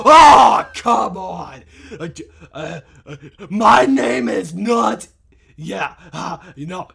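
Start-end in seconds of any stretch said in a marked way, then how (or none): 0.1-1.6 exasperated yell. Pretend. Player loses at the game, exasperated yell. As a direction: cry out at a rotten loss.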